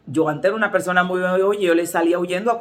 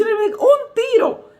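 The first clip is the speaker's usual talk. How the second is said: very high, drawn-out squeal of alarm; panicked cry; 3 dB louder, much slower than usual. Retold or imitated. Church member reporting a gunshot, imitated panicked squeal.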